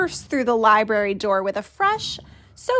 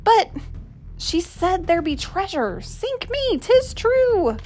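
pirate grumble; 7 semitones higher than usual. Acted. Pirate voiced in story.

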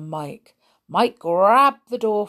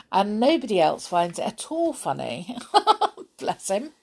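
laughing; faster than usual. Real, not acted. Laughing at son's jokes.

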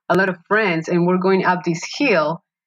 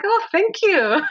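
laughing thanks; 13 semitones higher than usual. Retold or imitated.

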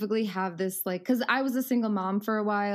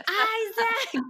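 yelling for son; 13 semitones higher than usual. Retold or imitated. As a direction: holler the name to get him moving. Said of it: "So then I just yell again".

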